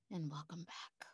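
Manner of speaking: soft whispered welcome back; whispering. Acted. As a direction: breathe the words gently. Ending meditation softly.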